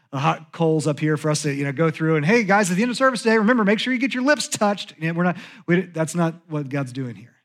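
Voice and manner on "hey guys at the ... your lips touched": fast, upbeat, joking pastor notice; playful end-of-service reminder; mock announcement. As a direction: rattle it off like a cheery announcement.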